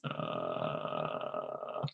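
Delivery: creaky gravel croak; a low creaky fry sound; vocal fry. Shown as a demonstration. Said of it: "people at the end of their sentences".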